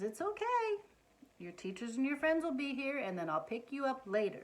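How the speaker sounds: calm the little one down; mother comforting her child at school; reassuring mom. Acted. Mother soothing crying child.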